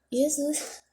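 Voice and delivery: breathless whispered exclamation; hushed exasperated whisper; whispered Jesus. Real, not acted. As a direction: whisper it to yourself in a rush. Exclaims under her breath mid-challenge.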